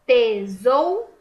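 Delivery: teacher splitting "Tesouro" into syllables; sounded out slowly. Shown as a demonstration. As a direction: drag "Tesouro" apart so the syllables show. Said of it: "o ou fica junto na mesma sílaba".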